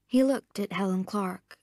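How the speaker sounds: plain reading voice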